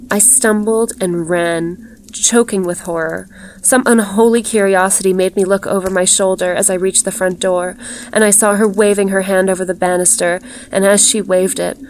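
measured, even literary reading; story narration. A narrator's reading. Narrator describing a glittering woman in green silk, measured storytelling. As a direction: read the tale aloud evenly, with care.

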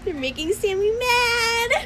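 giggling high through the words; laughing tease. Real, not acted. Friend teasing her friend, laughing high.

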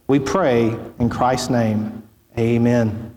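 hushed, reverent pulpit prayer, fading at the close. Acted. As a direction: pray aloud for the congregation, humbly. Pastor leads opening prayer.

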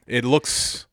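halting impression with long odd pauses; Christopher Walken. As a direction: break the sentence in strange places, like the actor. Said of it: "show him exactly how you would say".

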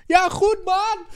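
very high mock answer; high-pitched fading cyclist reply; passing reply. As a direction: call back while riding away.

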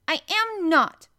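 high, loud, drawn-out denial; snapped. A narrator's reading. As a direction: snap back indignantly, leaning on each word. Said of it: "snapped Colin".

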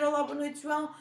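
bright call-centre greeting; customer service voice. Shown as a demonstration. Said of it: "Vou dizer". (voz de atendimento ao cliente)

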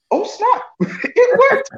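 giddy, can't believe it worked; laughing surprise. Retold or imitated. Boy hearing the teacher call him Shaquille, laughing surprise.

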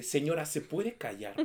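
slow, firm and fed up; stern slowed-down scolding. Retold or imitated. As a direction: tell the noisy lady off, word by word. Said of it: "pero así mal pedo".

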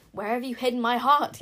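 loud, demanding yell; acted angry shout. A narrator's reading. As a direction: yell the question in outrage. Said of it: "yelled Incanzo".

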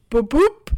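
car lock beep. Retold or imitated. Mom locking car near corner, imitated beep. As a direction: mimic a car lock with your voice.

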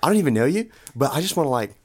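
Australian-sounding dude pitch; halting, put-on Australian-like accent; Todd. Todd makes his awkward pitch to Louise, Australian-sounding. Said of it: "I'm gonna use my Todd voice".

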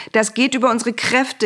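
high, helpless lament; wailing complaint. A narrator's reading. Mosquito-bitten soothsayers complain to Pharaoh, wailing. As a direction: wail it as if overwhelmed. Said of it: "jammerten sie".

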